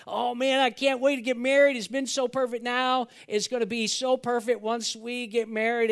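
bubbling over about the wedding; an engaged couple gushing about marriage; excited couple. Retold or imitated. Engaged couple's eager voice quoted.

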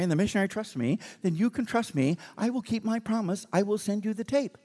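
a hint of the driver's speech pattern; imitating the driver's English. Preacher talks the driver's way to win his trust, mildly mimicking. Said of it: "Started talking like him after a while".

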